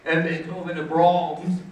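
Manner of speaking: a touch of pompous name-dropping; Scott. Retold or imitated. College rival listing his classical records, lightly mocked pomposity. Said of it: "he would talk like this about it".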